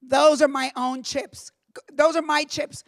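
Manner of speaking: a hint of a gruff old boss, slow at the end. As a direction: lecture her like a dismissive old man. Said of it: "he goes".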